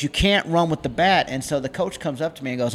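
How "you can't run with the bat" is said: explaining umpire. Retold or imitated. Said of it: "And he goes".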